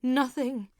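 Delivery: overwhelmed with joy through tears; crying, almost laughing. A narrator's reading. Wife telling her husband she can see, tearful joy. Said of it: "she cried until she was almost laughing".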